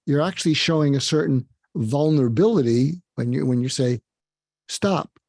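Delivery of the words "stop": firm but not yelling. Shown as a demonstration. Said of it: "You're not yelling at them".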